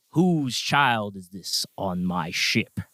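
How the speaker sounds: slow, stern captain's demand; a hint of a stern naval captain. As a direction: loom over the child and demand slowly. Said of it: "He's like".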